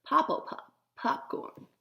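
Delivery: breathy jingle read out like a TV ad; half-voiced ad jingle; commercial jingle. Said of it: "have a commercial that says".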